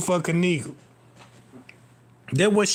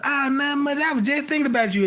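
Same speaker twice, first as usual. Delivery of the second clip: lightly voiced sweet girlfriend, higher; 5 semitones higher, 3 dB quieter, faster than usual. Girlfriend on the phone answering him, mock sweet. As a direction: coo it back like the girl on the line.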